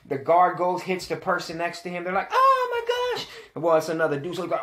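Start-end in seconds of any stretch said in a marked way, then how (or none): 2.3-3.3 high, loud startled "oh my gosh"; shocked gasp. Retold or imitated. Bystander struck by the clipper guard, high startled cry. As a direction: yelp it like someone just got hit.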